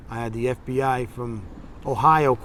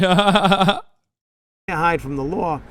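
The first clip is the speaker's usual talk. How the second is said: retold angry warning; 3 semitones higher, 4 dB louder, slower than usual. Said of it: "I was swearing at him".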